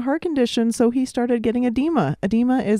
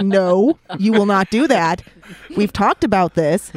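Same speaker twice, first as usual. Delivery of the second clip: firm, louder pet-owner telling-off; stern mock scolding; 5 dB louder, slower than usual. Exasperated owner to a pet velociraptor, loud mock scolding. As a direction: lay down the law, playfully.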